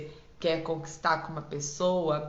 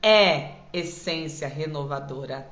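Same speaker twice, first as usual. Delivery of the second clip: louder, rousing and inspiring; uplifting voice; 4 dB louder than usual. Shown as a demonstration. Coach switching to an uplifting tone, rousing. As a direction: lift the audience up. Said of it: "eu mudo a minha voz para dizer".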